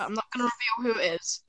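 fast secretive whisper. Real, not acted. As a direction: hush it out quickly. Secret about video maker.

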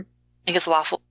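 choppy connection breaking up; cutting out. Real, not acted. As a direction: voice cutting out on a bad line. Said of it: "You keep cutting out".

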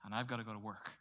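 low, soft and worn-out; exhausted weekly grumble; weary groan. Retold or imitated. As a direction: drag it out like a tired Monday. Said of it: "how many of us are like".

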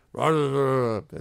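loud goblin gibberish; Gleek. Acted. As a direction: bark nonsense syllables as a commanding goblin. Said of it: "he points, and he says".

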